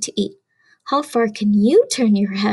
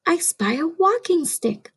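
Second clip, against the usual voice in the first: gasp, then a higher delighted I spy; gasped discovery; 4 semitones higher than usual. Acted. Playing I spy with children, excited gasp. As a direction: sound like you just spotted it. Finding hidden insect.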